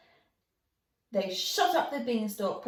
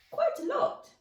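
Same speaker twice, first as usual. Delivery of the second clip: rising wonder. A narrator's reading. Beanstalk grown huge.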